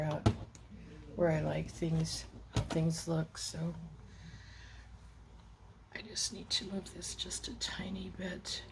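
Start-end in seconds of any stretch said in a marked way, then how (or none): 5.9-8.6 whispering. Real, not acted. Muttering to herself while adjusting.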